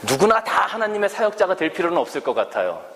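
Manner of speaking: a hint of someone brushing off ministry; voicing a churchgoer. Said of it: "그렇게 말씀하시는 분들도".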